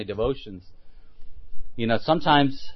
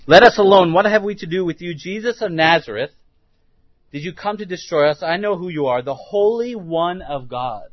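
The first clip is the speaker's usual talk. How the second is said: higher, louder demon's outcry, easing off; demon crying out; 3 semitones higher, 3 dB louder than usual. Acted. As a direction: cry out as the demon confronting Jesus. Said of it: "he cried out with a loud voice".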